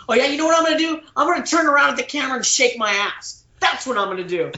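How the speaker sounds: defiant retort, starting high; mock-rebellious comeback. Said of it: "my rebellious side comes out".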